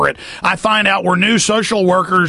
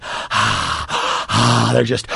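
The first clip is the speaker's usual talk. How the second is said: bored sigh; 8 semitones lower, 3 dB quieter, much slower than usual. Retold or imitated. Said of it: "just like".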